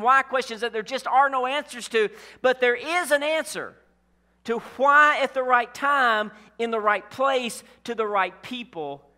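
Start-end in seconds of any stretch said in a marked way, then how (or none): 2.4-9.0 building emphasis. Acted. Preacher builds to climax.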